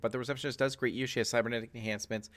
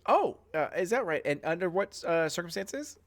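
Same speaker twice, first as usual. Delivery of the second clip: higher, polite front-desk voice; receptionist; 8 semitones higher than usual. Acted. Receptionist quizzing the crew, higher, polite voice. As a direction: sweetly probe them about their visit. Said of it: "And she goes".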